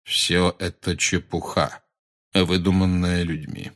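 slow, even centaur teacher; calm. Acted. Centaur rejecting the pupil's astrology as human nonsense, calm. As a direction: dismiss it calmly and unhurriedly. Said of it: "спокойно промолвил Флоренс".

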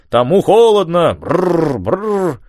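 brr of cold, shivering. A narrator's reading. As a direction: shiver through the words. Shivering quote of Lear.

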